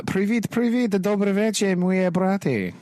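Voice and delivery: hammed-up host welcoming his brothers; Russian greeting voice. Playful Russian-language greeting.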